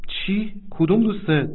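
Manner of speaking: high, startled asking; shocked question. Acted. Wife hearing of a martyred friend, shocked and high. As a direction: gasp the first word out in shock. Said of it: "با ناراحتی گفت".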